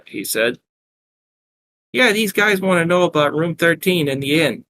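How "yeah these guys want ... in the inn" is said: higher Brooklyn barmaid voice; Brooklyn accent. Acted. Barmaid telling her boyfriend about the strangers, Brooklyn accent. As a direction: answer in a raised Brooklyn accent. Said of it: "replied Beatrix".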